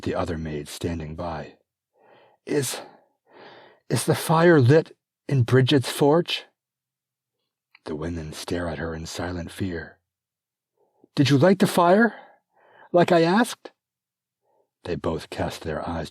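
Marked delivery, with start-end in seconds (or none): 2.5-6.5 higher, loud urgent question; labouring princess worried; anxious princess. Acted. Gertrude asks urgently. 11.2-13.7 higher, loud pressing question; stern mistress; demanding princess. Acted. Gertrude presses maids.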